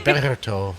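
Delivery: Berto with a flat American r; american accent spanish. Shown as a demonstration. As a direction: Berto with no rolled r. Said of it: "Definitely a gringo".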